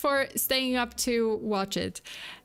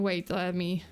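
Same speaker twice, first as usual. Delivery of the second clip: breathless, gasping between words; talking while winded; out of breath. Real, not acted. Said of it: "also I'm getting out of breath".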